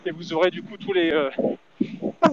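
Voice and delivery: breathless while running; out of breath. Real, not acted. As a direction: talk while jogging, short of breath. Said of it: "c'est dur de parler courir en même temps".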